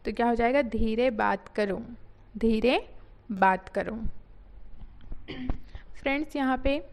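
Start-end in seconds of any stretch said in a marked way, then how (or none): 0.6-4.0 slow model phrase. Shown as a demonstration. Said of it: "model of talk slowly".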